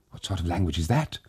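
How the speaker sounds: hushed and quick, afraid of being heard; terrified whisper. Acted. Daughter-in-law asking the family in the dark room, terrified whisper. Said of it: "whispered the daughter-in-law, terrified".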